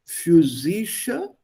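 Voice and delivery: "physische" very slowly, syllable by syllable; careful pronunciation. Shown as a demonstration. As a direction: model "physische" with an f sound at the start, drawn out. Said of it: "Two different pronunciations".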